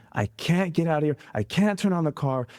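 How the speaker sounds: retold strain, pitch lifted; stressed cousin. Cousin unable to start the car, retold with mild stress. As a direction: lightly imitate a stressed driver stuck in the car. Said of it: "hearing distinctively the stress in his voice".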